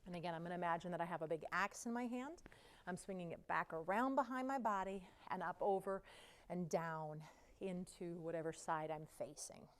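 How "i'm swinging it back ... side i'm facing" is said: winded from the exercise; puffing between the words; out of breath. Real, not acted. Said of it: "You can hear I'm getting out of breath".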